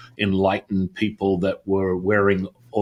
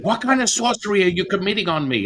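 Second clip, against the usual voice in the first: retold scream; 10 semitones higher than usual. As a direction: imitate a shocked friend screaming down the phone. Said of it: "she's screaming through the phone".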